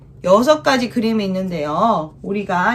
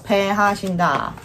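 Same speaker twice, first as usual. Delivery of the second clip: slow dictation; 4 dB quieter, slower than usual. Shown as a demonstration. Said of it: "여기에 한번 적어볼까요?".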